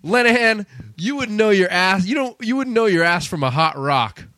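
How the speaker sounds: lightly acted film-line delivery; quoted movie line. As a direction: start high, as if berating a subordinate. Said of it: "the other good line was".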